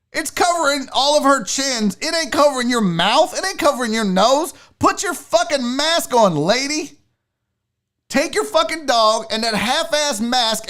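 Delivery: indignant imagined telling-off; angry tirade. Acted. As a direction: chew her out with punched swear words. Imagined tirade at rude customer.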